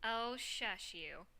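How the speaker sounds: slow, soft playful shush; drawn-out shushing. Acted. Friend brushes off a book joke, slow gentle shushing. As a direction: stretch it out gently. Teasing reply in script.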